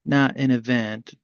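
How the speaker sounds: measured recital with long pauses; deliberate poem delivery, easing down at line ends; poetry reading. Acted. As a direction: read it as verse, letting each phrase settle. Host reads own poem.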